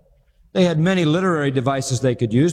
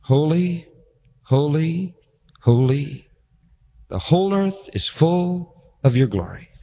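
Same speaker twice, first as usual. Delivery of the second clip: solemn angelic cry. Shown as a demonstration. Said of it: "that's what seraphim do".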